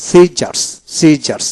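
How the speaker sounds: সিজার্স with a single s at the start; model pronunciation. Shown as a demonstration. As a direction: demonstrate সিজার্স as si-jars. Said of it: "এইভাবে হবে".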